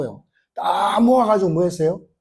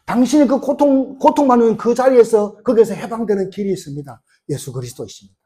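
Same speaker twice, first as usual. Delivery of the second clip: higher-pitched preacher's proclamation, easing at the end; retold evangelist's appeal; 4 semitones higher than usual. Paul telling the suffering of a way out, retold urgent appeal.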